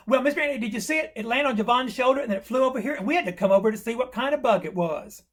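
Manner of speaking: put-on eager rush of a boy's report; excited kid explaining. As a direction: tumble it out like an excited child. Acted boy excitedly explaining the bug.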